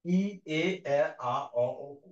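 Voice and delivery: vowels recited in order, one by one; vowel series demo. Shown as a demonstration. Teacher reciting the vowel order to students. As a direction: say the vowels like a chart read aloud. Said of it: "প্রথমে আছে ই".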